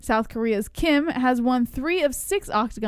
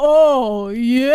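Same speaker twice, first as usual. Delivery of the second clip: full-throated, very loud, belted cry; 8 dB louder than usual. Trying the impression again after being told it missed, Kool-Aid Man voice. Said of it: "Let me try it again".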